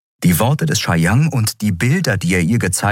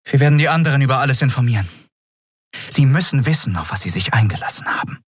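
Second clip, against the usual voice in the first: higher, brisk character voice; Endriel, resolute; 7 semitones higher, faster than usual. Acted. Endriel decides to inform the others, resolute and quick. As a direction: announce the plan quickly, decided.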